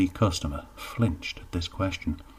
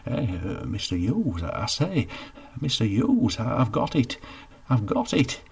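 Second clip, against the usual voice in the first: eager idea; 5 semitones higher than usual. Acted. Idea strikes Geoffrey.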